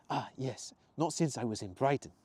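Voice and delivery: put-on understated Italian accent. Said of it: "his faded Italian accent".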